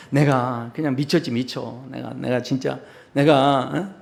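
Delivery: low, subdued apology to a wife; lightly acted contrite husband; mock tearful pleading. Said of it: "간절하게 막 닭똥 같은 눈물을 흘리면서".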